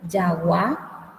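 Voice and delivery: "yagua" with a Spanish Y onset; Guaraní J sound. Shown as a demonstration. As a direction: say "yagua" with ya, final syllable stressed. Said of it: "la J se pronuncia como". ("yagua" con ye inicial, en guaraní)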